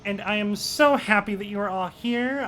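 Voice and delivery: sugary, fast host speech; mock sweetness. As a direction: lay the sweetness on thick. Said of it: "she's doing it again".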